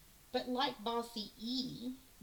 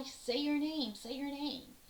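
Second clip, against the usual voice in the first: bossy E voice; 6 semitones higher than usual. Acted. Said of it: "he tells I".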